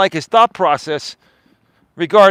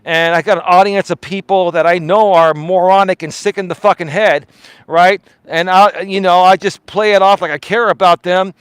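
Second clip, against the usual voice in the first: lower, fast, smug imitation of the streamer; mimicking a lazy streamer's lower, quicker confession; mocking the streamer; 4 semitones lower than usual. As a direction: sneer through his imagined inner thoughts, lower and quick. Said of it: "you're like".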